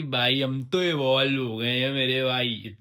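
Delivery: joking Jabalpur accent among friends; funny small-town Jabalpur talk; Jabalpur hometown accent. Shown as a demonstration. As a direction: ham up the Jabalpur lilt for fun. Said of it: "ये वाले accent में बात करते हैं".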